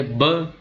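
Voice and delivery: a clear "ब" with both lips pressed together; b sound demo. Shown as a demonstration. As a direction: say "ब" slowly, lips closed then released. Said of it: "sound ब pronounce करेंगे". ("ब" ध्वनि होंठ मिलाकर)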